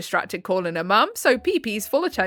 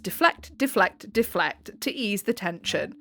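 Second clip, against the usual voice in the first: each deflect softer until it nearly vanishes; fading repetition; 2 semitones lower, 6 dB quieter than usual. Acted. Explaining her dodge to the audience, a fading mutter. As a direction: let the repeated word trail away into quiet. Repeating deflect, voice dropping away.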